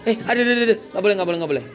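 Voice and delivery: high, quick tut-tutting that settles down; playful fussing reprimand, falling back to normal; child-level scolding. Shown as a demonstration. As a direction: demonstrate mild telling-off for little kids. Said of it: "Marahnya seusia mereka".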